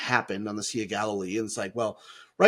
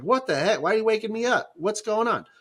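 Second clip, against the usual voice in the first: higher, startled grumble at being woken; mock-annoyed Jesus, pitched up; 9 semitones higher than usual. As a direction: sound rudely woken from sleep.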